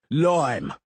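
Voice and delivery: loud bellowing shout. A narrator's reading. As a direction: bellow it drunkenly. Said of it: "the Master bellowed".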